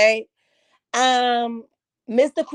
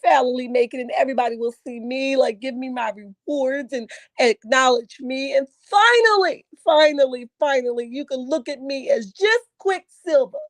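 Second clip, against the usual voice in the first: imitating Quicksilver. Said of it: "and he's like".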